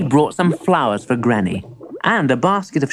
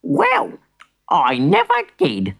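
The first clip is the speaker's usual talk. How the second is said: astonished granny; 3 semitones higher than usual. Acted.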